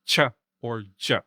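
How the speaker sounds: "ch" and "j" as isolated palatal affricates; affricate sounds. Shown as a demonstration. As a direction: demonstrate "ch", then "j", each starting with a stop. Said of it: "to give affricate sounds".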